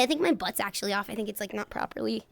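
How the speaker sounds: ordinary talk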